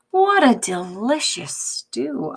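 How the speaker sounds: breathy whisper of delight; whispered taste. Acted. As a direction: whisper it after tasting. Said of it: "Amu said".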